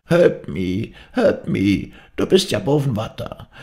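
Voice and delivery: put-on high, desperate dying old woman; shrieked distress cry. A narrator's reading. Dying woman cries toward the sea, high cry of distress. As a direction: cry out for help in a high, strained voice. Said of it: "kreischend, wie ein Notschrei".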